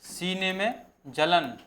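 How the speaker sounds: "सीने में जलन" spoken very slowly, word by word; slow dictation. Shown as a demonstration. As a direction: dictate it slowly so students can write. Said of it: "मैं धीरे धीरे बोल रहा हूँ". (नोट्स लिखवाते हुए बहुत धीरे बोलना)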